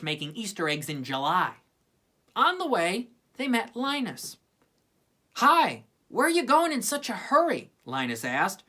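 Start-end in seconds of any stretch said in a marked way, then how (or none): 5.3-7.7 bright greeting. Acted. Linus greets hurrying friends.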